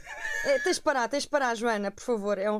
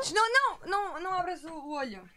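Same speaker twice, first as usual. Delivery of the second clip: alarmed; 7 semitones higher than usual. Real, not acted. Urging friend not to open eye.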